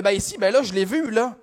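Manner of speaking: customer's Québécois insistence; Québécois accent. Acted. Customer points out the pastry to cashier, Québécois accent. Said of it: "je vais faire un accent".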